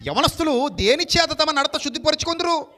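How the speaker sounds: booming scripture proclamation; preached aloud. Shown as a demonstration. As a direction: ring out the scripture like from the pulpit. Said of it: "నూట పంతొమ్మిదో కీర్తన".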